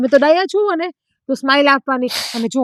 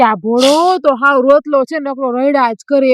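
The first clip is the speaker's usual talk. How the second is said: mocking the neighbours. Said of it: "પછી બધા એમ કે".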